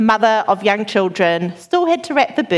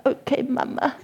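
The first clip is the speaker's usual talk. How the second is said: put-on child voice; 3 semitones higher, 7 dB quieter than usual. Small child agreeing with mother.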